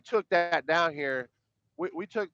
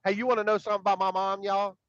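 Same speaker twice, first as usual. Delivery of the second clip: put-on higher, fast, eager kid voice; kid's eager voice; 5 semitones higher, faster than usual. Kid on a live stream teasing about his mom, eager. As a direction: imitate the kid rushing a question. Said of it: "he was like".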